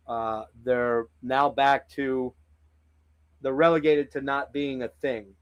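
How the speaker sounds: talking around hair in the mouth; words slightly blocked by a stray hair. Real, not acted. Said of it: "Sorry, got hair in my mouth here".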